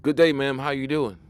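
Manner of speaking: mock gentlemanly good-day; old-fashioned polite greeting. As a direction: tip your hat and greet her properly. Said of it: "nobody talk like that no more".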